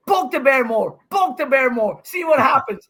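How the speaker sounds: mock taunt. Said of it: "he wins a point and goes".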